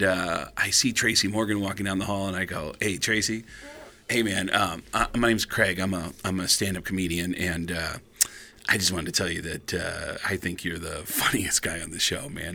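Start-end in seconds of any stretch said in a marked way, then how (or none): 2.8-12.5 soft, low, hesitant greeting; timid approach. Retold or imitated. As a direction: approach a star shyly, voice dropped. His younger self approaching a star.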